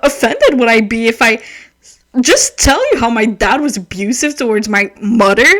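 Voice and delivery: mildly outraged retold rant; offended rant. Reader retelling her rant about that line, offended. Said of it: "ranting about that line".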